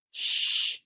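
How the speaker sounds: unvoiced hush. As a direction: hiss a quick shush. Friend hushing during a test.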